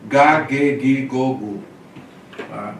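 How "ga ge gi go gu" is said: ga, ge, gi, go, gu with hard g; hard g drill. Shown as a demonstration. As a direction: repeat the hard g syllables. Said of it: "É sempre".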